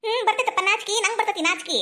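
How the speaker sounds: teasing imitation of a shy boy; mocking echo. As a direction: mimic the son's bashfulness. Mother mockingly echoes son's shyness.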